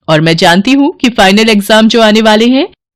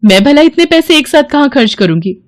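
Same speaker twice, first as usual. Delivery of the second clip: shocked disbelief; 5 semitones higher than usual. Acted. Mother shocked at lost money.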